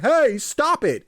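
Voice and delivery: high, slow indignant cry; embarrassed protest. Retold or imitated. Gamer voicing the food truck man getting slapped, high and slow.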